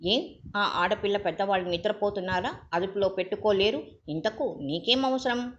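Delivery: a reddened father turning on the visitor; flushed anger. Acted. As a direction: snap back in rising fury. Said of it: "ముఖం జేవురించి".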